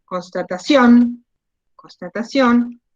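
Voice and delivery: slow, measured teacher's dictation. Shown as a demonstration. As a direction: draw the word out slowly for the class. Teacher dictates an example word to class.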